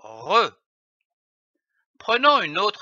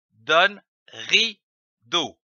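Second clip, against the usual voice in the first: « rideau » lu lentement, syllabe par syllabe; étirez « donne rideau » doucement; lecture lente; much slower than usual. Shown as a demonstration. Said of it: "L'association de ces deux syllabes". (« ri-deau » détaché, lent)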